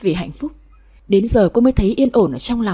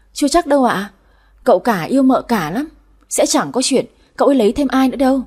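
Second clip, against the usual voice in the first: higher, lively servant voice; pert maid; 3 semitones higher, 3 dB louder than usual. Acted. Maid doubting the visitor's claim, pert. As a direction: contradict her with cheeky confidence.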